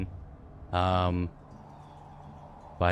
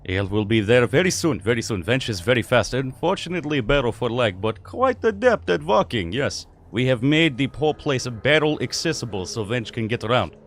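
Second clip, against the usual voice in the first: bellowing tavern keeper; 3 semitones higher, 5 dB louder than usual. Acted. Tavern keeper shouts orders to the wench, then seats friends. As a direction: call across the tavern, then welcome guests.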